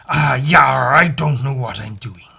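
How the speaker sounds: big comic seafarer impression; Simpsons sea captain. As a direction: put on a hammy old salt from a cartoon. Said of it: "That's from The Simpsons".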